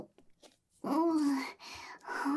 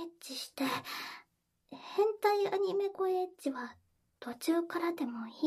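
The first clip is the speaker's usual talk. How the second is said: whispering. Acted. Intimate whispered roleplay.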